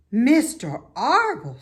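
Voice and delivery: high, loud mock sob; a touch of sobbing; mild sob. A narrator's reading. Wilbur sobs the farmer's name, mildly. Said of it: "sobbed Wilbur".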